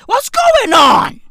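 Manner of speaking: high, loud, slow yell; exasperated shout. Real, not acted. Comedian yells at Black Twitter in disbelief, exasperated shout. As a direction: bellow it in disbelief.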